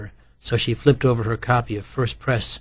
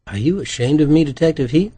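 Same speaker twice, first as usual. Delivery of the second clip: a light, mock-posh grand dame lilt; theatrical grand dame; 6 semitones higher, 6 dB louder than usual. A narrator's reading. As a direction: ham it up like an offended society lady. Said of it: "He said it with a theatrical air".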